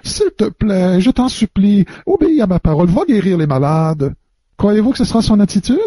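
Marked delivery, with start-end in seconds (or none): 0.0-4.1 lightly honeyed, pleading plea; sweet honeyed voice. Pretend. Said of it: "avec une petite voix mielleuse".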